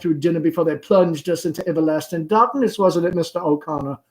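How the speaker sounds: a hint of the fussing mother; Amanda. Amanda's voice in the play.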